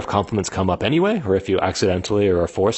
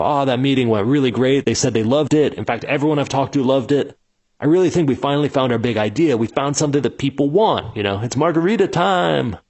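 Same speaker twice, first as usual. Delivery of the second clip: overexcited founder; 4 semitones higher than usual. Retold or imitated. Founder bragging to his team back at office, excited. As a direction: celebrate a meeting that went nowhere. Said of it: "you go".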